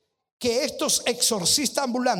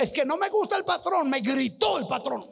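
mock whiny complaint, pitched higher; imitating a sulky worker griping about the boss; complaining drifter; 4 semitones higher than usual. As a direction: whine like a man who quits every job. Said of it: "Y el ambulante dice".

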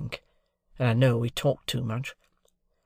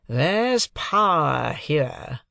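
Jaggers; 4 semitones higher, 4 dB louder, much slower than usual. Acted. Jaggers voiced in the novel.

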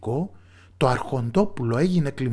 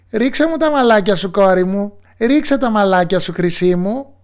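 louder, higher, urgent witch cry; insistent witch call; 8 semitones higher, 8 dB louder than usual. Acted. Witch shouts up again to her silent daughter. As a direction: call harder, she isn't answering.

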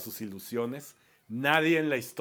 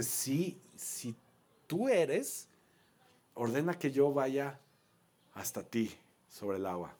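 a hint of hesitant Peter; doubting Peter; slower than usual. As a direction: titubea entre palabras, más suave. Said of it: "dudando, y le dice". (Pedro dudando, con un toque de vacilación)

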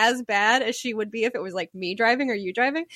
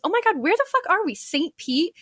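high, rushed alarm; mock panicked mom; 8 semitones higher than usual. Daughter mimicking mom lost on the drive, mock panic. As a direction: imitate a lost passenger getting worked up.

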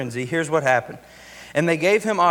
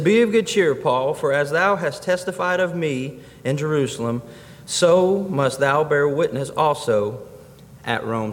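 emphatic scripture reading. Acted. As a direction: repeat the verse weightily for the congregation. Repeats the verse for emphasis.

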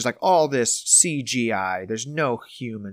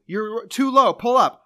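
higher, louder command; urgent wingman; 9 semitones higher, 5 dB louder, slower than usual. Retold or imitated. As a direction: bark it as a wingman. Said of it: "I'll say person one and person two".

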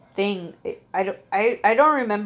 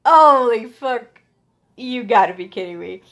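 laughing disbelief; 4 semitones higher, 8 dB louder than usual. Retold or imitated. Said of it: "And I just kept laughing".

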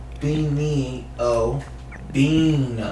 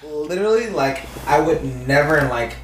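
put-on valley girl. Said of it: "like, White Valley Girl".

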